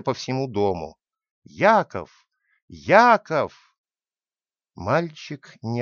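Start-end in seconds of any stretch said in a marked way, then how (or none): 1.4-2.3 a loud call through the house. A narrator's reading. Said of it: "закричала так, что её голос раздавался". 2.7-3.8 the second call, louder and higher. A narrator's reading. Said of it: "закричала так, что её голос раздавался".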